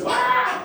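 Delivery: high startled "ah"; mock yelp of surprise; startled cry. Newcomer baffled by the room's yell, high mock cry. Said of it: "And he goes".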